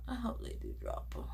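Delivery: quiet quick echo. Real, not acted. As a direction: murmur it again under your breath.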